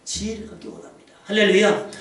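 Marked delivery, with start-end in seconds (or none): none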